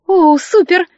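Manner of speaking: high, loud delighted cry; excited exclamation. Acted. Варя радуется, что Демьян отвезёт Лизу: громко и высоко. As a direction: burst out, thrilled by the offer. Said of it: "воскликнула Варя".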